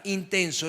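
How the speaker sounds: "intenso" set apart and weighted on its own; stress on intenso. Shown as a demonstration. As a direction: land on "intenso" as the whole point. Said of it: "el meollo se encuentra en esta palabra". ("intenso" marcado, aislado y con énfasis)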